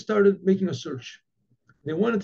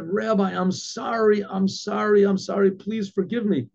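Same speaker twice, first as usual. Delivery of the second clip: higher, mildly acted begging; pleading apology; 4 semitones higher than usual. Innkeeper kneeling before the rabbi, acted pleading. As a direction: plead for forgiveness, pitch raised. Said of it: "got down on his hands and his knees".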